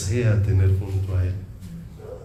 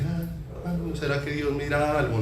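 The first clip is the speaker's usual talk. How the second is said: doubtful mock whisper; 6 semitones higher, 9 dB quieter than usual. Mocking doubtful person.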